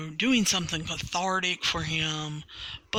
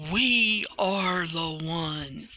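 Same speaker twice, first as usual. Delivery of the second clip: mock powerful yell; slower than usual. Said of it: "yells ... very powerfully".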